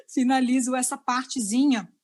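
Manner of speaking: retomar a frase com uma risada; rindo. Real, not acted. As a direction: falar saindo de um riso, descontraída. (rindo ao falar)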